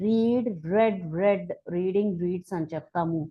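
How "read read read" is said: long ee in "రీడ్", short e in both "రెడ్"; "రెడ్" with a short vowel after long-vowel "రీడ్"; vowel contrast. Shown as a demonstration. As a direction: recite "రీడ్", then past forms "రెడ్" like red. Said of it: "same rule మనకి రీడ్ కూడా వాడతాం".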